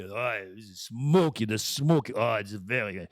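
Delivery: mock French-tinged wine snob; lightly hammed connoisseur; snooty connoisseur. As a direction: savour each word like a pompous taster. Playing snooty whiskey connoisseur.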